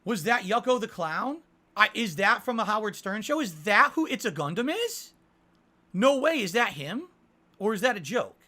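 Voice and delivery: loud, rising disbelief as it sinks in; surprised disbelief. Real, not acted. Streamer stunned by the chat's news, asking loud questions. Learns the guest may be Yucko.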